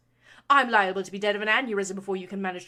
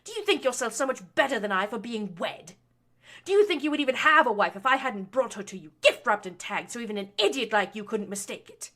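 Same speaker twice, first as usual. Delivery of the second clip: loud, high, rising fury; lashing out; 7 semitones higher, 15 dB louder than usual. A narrator's reading. Baroness lashing her son for lecturing her. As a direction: build the tirade to a shrieking peak. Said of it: "between her lashings".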